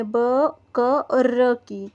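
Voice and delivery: slow, each sound of ब, क, र said apart; sounding out letters. Shown as a demonstration. Teacher sounding out ब, क, र for children, slowly. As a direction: break बकरी into its sounds ब, क, र, slowly. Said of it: "बकरी में तीन ध्वनि है".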